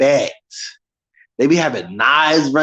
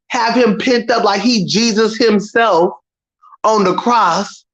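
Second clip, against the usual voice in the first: usual speaking voice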